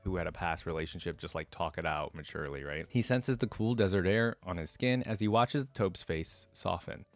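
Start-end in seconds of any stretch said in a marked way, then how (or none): 2.9-7.0 measured storytelling read; steady audiobook narration of a fantasy tale; story narration. A narrator's reading. Reads the story aloud.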